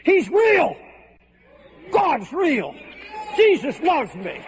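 high, overwhelmed voice breaking with joy; a woman who finally cries, telling her mentor; overjoyed tearful cry. Retold or imitated. New convert to her mentor, high overjoyed tearful cry. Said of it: "She said".

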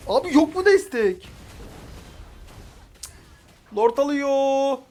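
real pleading yell; desperate plea. Real, not acted. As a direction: beg the team for support. Pleading for backup.

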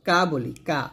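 কা with a light, thin K; Qaf as Kaf. Shown as a demonstration. Teacher showing pupils a common mistake, thin K. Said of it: "কাফের মতো উচ্চারণ".

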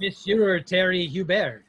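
slow, announcer-like go at a French name; attempted French pronunciation. Host introduces the French Terminator, attempting a French accent. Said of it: "Did I do that right".

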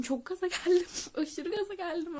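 excitedly recalling getting hyped; fired up. Retold or imitated. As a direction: build up the hype as you say it.

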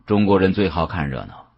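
usual speaking voice

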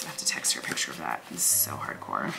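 low amused mutter; low muttered aside about a friend's photo. Real, not acted. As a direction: grumble it to yourself, impressed.

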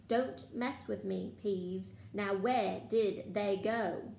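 slow threatening growl; menacing. Acted. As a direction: warn him slowly and darkly. Filch threatening Peeves.

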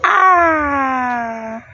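high, drawn-out emotional cry. Real, not acted. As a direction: let out a long, high, overcome "ah". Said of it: "now I'm getting all emotional".

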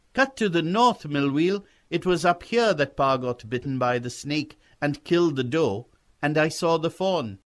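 put-on high boy's voice giving directions; a keen boy, pitched well up; eager young boy. Boy guides rider toward the fawn, high and eager.

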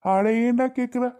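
acted exasperation. Man complaining to his friend about squabbling kids, exasperated. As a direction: exclaim it high, as if fed up.

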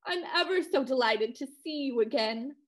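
upper-crust Connecticut college voice; lockjaw accent. Acted. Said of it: "in a snooty, lockjawed voice".

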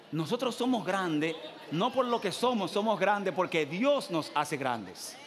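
slow, shouted proclamation, Dios hammered; preaching shout. Acted. Pastor proclaims God's greatness to the church, shouting. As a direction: thunder it out to the congregation, slowly. Preacher declares with full force.

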